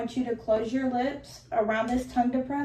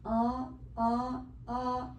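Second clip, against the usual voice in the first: saying ahh; 5 dB quieter, much slower than usual. Real, not acted. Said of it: "I want you to go".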